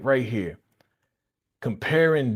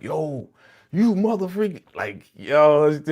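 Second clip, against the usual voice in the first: higher, louder mock threat; mock angry; 5 semitones higher, 5 dB louder, slower than usual. Man confronting Paris, mock furious. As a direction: get up in her face. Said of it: "getting all up in Paris' face".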